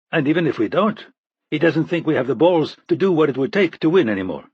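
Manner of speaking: a hint of a tense man venting about a psycho general; agitated Russian-born officer. McCormick describing Sokolov, agitated.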